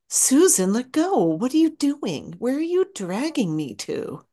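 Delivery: high, urgent and alarmed; alarmed cry. Acted. Peter cries out to Susan as he is dragged, high and alarmed. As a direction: Peter panicking as something drags him.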